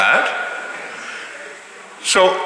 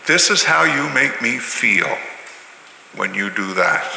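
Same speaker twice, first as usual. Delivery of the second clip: calm I-statement; 2 semitones lower, 4 dB quieter than usual. Shown as a demonstration. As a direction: model the gentle words. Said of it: "If you stop it, It stops".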